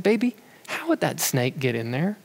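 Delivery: put-on softly asking his little girl, no pressure; a soft, patient dad talking to his scared child at bedtime; gentle fatherly question. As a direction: coax her gently, voice dropped low and soft.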